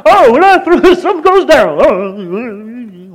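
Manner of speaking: high, loud faux-amazed exclaim; mock naive discoverer. Preacher mocking Newton's discovery, high, loud and amazed. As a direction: gush it like a child who just found gravity. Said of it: "It was not a".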